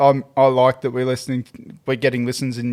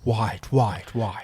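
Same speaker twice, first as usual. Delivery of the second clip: mock echo; 3 semitones lower, 6 dB quieter, much slower than usual. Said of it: "Should set up the echo".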